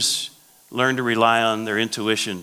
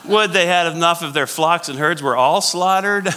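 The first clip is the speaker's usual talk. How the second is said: high, loud, scoffing question; incredulous Moses; 7 semitones higher, 6 dB louder than usual. Acted. Moses questioning God about flocks and herds, incredulous. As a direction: throw it out in laughing disbelief. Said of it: "Moses is laughing at God".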